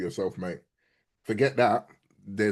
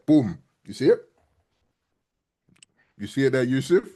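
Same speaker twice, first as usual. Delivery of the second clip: excited; 4 semitones higher, 6 dB louder than usual. Real, not acted. Trade hits target on replay.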